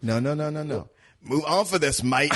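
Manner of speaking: a mock thick Cockney accent, laughing through it; half-laughing mock Cockney accent. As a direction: ham up a thick Cockney accent like a London geezer. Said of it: "in that super thick Cockney accent".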